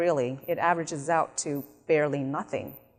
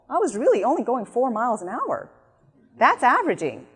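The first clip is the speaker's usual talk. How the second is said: protesting driver; 4 semitones higher than usual. Acted. Acts driver arguing with cop.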